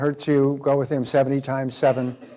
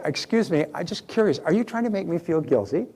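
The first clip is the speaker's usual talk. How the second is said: cheerful, curious; 4 semitones higher than usual. Shown as a demonstration. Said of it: "just say it with a cheerful voice".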